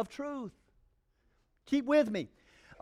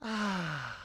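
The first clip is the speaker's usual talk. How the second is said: contented ah; 2 semitones lower, 7 dB quieter than usual. Pretend. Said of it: "But when Jesus breathes".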